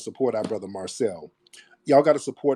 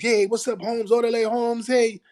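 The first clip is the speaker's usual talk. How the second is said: higher-pitched mocking imitation of a Hispanic guy; mock Hispanic stereotype; 11 semitones higher than usual. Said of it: "You can't go around Hispanics".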